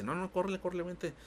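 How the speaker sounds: high, hurried, mock urgent plea; imitated panicked lady. Retelling the scared lady at the funeral home, high mock panic. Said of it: "me dice".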